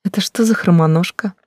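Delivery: shrill, high, loud squeal; shriek. Acted. Blonde shrieks at the intruding girl, high squeal. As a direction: squeal it out, offended and shocked.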